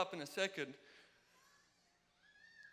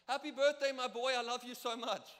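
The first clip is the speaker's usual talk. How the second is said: mom's gushing birthday status, read higher and louder; imitating mom; 4 semitones higher, 4 dB louder than usual. Mom's birthday status post, quoted in a higher, louder gushing voice. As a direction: gush like a proud mom posting online.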